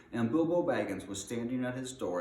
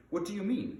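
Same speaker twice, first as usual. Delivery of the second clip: puzzled question; 11 semitones higher than usual. Acted. Gandalf questions Bilbo's greeting.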